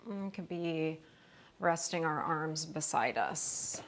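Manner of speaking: calm, unhurried yoga instruction with long pauses; guided relaxation. Real, not acted. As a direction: ease them gently into rest, leaving space between phrases. Leads restorative yoga relaxation.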